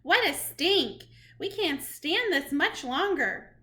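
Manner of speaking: sharp high squeal of disgust, then fading to a lightly voiced grumble; witches' cries of disgust. A narrator's reading. Witches smelling the boy, disgusted cries. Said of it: "there were cries of".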